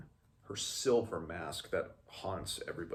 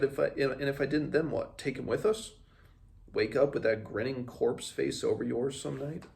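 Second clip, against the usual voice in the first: higher and louder, exasperated retort; angry outburst; 7 semitones higher, 6 dB louder than usual. Acted. Einskaldir snapping back at Joswa after killing the Norn, angry shout. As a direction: fire it back at the prince, indignant.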